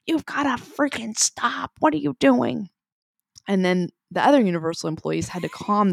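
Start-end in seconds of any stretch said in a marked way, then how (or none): 0.1-2.7 cranky employee. Retold or imitated. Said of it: "one of them's like".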